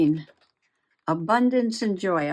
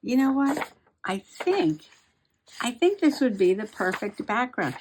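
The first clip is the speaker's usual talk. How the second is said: the eureka moment, acted out with a lift; sudden idea; 4 semitones higher than usual. Crafter reliving finding the right background paper, excited burst. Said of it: "I'm like".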